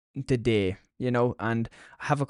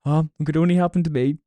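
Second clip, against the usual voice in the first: imitating grandmother; 4 semitones higher, 4 dB louder, faster than usual. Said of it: "she was like".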